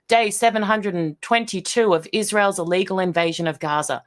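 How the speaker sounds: a light news-anchor read of the headline. Retold or imitated. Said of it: "Headline example".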